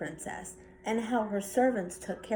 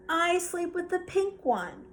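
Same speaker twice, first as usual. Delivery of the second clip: little sister; 7 semitones higher than usual. Acted. Little sister voiced in story.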